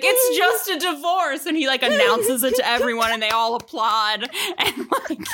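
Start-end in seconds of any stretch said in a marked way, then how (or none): 0.0-1.5 a higher, laughing It's just a divorce; giggling as she quotes Cal; laughing through the line. Retold or imitated. Quoting Cal to her co-host while laughing, higher. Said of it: "And he's like".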